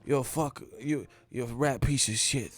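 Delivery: lightly mimicked angry boxer threat; understated menace in a borrowed voice; seething, only lightly acted; Mike Tyson. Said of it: "Let me stop this impersonation".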